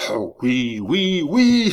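high, loud fervent assent; exclamation. A narrator's reading. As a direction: cry yes with building fervour. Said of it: "s'écria le jeune homme". (cri d'approbation exalté)

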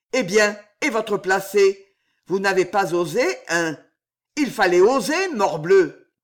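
loud, brisk scolding. Acted. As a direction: scold him for losing his nerve. Concierge scolds Damiens.

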